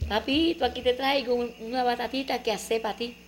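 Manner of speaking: put-on high, sweet wheedling child voice; butter up papa like a little girl; coaxing little girl. Daughter sweet-talking her father, high and coaxing. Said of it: "jaboneándolo".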